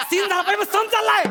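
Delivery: high-pitched impatient outburst; worked-up director's reprimand; exasperated scolding. Acted. Director scolding over the scene.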